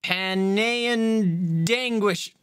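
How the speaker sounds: "Panean Danguish" said slowly as two odd names, stress shifted onto the wrong syllables. Shown as a demonstration. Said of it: "Putting emphasis on the wrong syllable".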